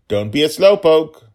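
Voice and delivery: put-on high, loud childish taunt; little dragon girl. Little girl taunting her father on the vine, high loud call. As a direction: call back to tease your dad. Daughter dragon calls while climbing.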